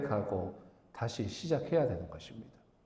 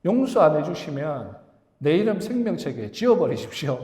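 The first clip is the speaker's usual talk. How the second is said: loud, higher-pitched ultimatum in prayer; retold threat; 4 semitones higher, 7 dB louder than usual. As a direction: act out a forceful bargaining plea to God. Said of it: "그리고 하나님 막 협박합니다". (하나님께 협박하듯 큰 소리로 기도하는 흉내)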